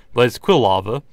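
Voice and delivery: hoarse, strained voice; losing voice. Real, not acted. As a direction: talk through a tired, hoarse throat. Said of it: "you can tell I'm kinda losing my voice right now".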